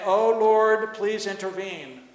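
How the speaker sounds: mock cry to heaven, strongest at the start. Preacher imitates people begging God to intervene, crying out. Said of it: "crying out to God and saying".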